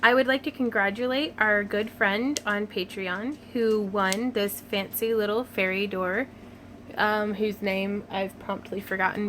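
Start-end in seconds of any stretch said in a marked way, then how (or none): 0.0-6.3 announcer voice. Shown as a demonstration. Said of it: "Announcer voice time".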